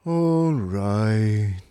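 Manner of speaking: slow, lifeless robot voice; bored superior machine; depressed robot drones on; gloomy robot. Acted. Marvin's voice.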